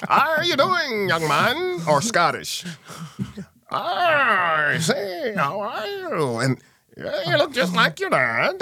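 high, posh-sounding British imitation; British accent. Father greets his son in a high mock British accent. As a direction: put on a British gent's accent. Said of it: "spoke as if he was British".

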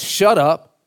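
loud, slow mock yell; preacher imitating a forceful rebuke; retold yell. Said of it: "he yells at the demon".

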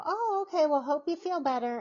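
bright polite reassurance to a sick friend; polite friendly reply. Retold or imitated.

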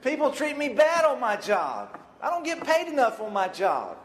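whiny complainer. Retold or imitated. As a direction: whine like a fed-up worker. Complaining churchgoer's voice.

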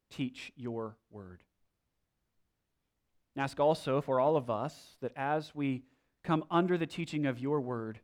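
measured prayer with long pauses. Real, not acted. Leads a prayer before teaching.

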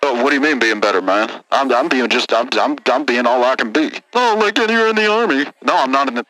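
redneck caller. Acted. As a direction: grumble it like a sore trucker.

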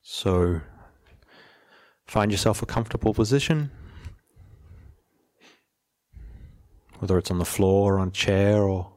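measured, even delivery, settling at the ends of phrases; guided meditation. Real, not acted. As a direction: gently lead listeners into stillness, unhurried.

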